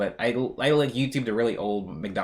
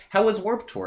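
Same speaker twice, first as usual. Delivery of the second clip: higher sweet wife voice; imagined wife; 9 semitones higher than usual. Retold or imitated. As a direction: ask like a cheerful sitcom wife. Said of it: "my wife was gonna say".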